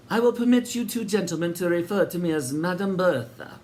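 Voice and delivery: high, sugary welcoming landlady voice; sinister hostess. A narrator's reading. Landlady welcoming Sid and Eric, high and sweet. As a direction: greet them grandly, a touch too sweet. Bertha introduces herself.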